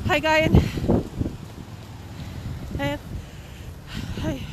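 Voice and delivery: breathless from walking uphill; panting between words; out of breath. Real, not acted. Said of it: "I'm a little bit out of breath".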